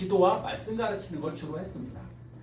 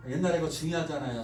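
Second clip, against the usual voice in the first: normal talking voice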